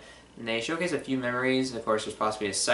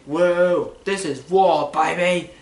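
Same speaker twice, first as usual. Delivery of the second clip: loud, higher-pitched excited holler; imitating a movie line; 6 semitones higher, 9 dB louder, much slower than usual. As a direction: whoop it out like a hyped-up action hero. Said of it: "Copley saying".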